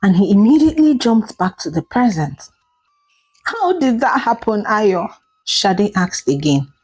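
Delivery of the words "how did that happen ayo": mild fearful tremble. Acted. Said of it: "her voice trembling in fear".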